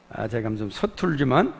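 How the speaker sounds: ordinary talk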